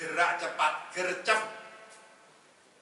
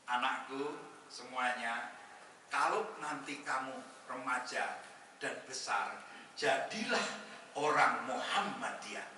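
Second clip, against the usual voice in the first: slow, soft motherly advice; gentle mother; 4 dB quieter, slower than usual. Pretend. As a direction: coax the children tenderly. Wife voiced advising children. (suara ibu yang lembut dan pelan menasihati anak)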